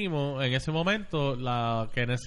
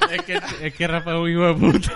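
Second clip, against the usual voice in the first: stifled giggles; 8 dB louder than usual. Real, not acted. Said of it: "No te rías como un cabrón y te quedes callado".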